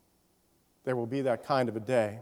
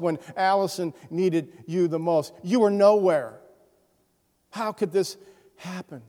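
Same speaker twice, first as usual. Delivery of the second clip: rising anguished cries at God, then fading to a broken hush; grieving father's anger; 3 semitones higher, 4 dB louder than usual. Retold or imitated. Pastor voicing the shattered father raging at God, anguished shout. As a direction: voice the father's furious grief, loud then spent. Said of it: "He was so angry".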